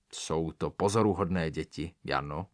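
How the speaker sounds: a lightly voiced deep, gentle tom cat; low and soft, like a gentle suitor. Tomcat speaks softly and deeply to his bride. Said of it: "svým hebkým, hlubokým hlasem".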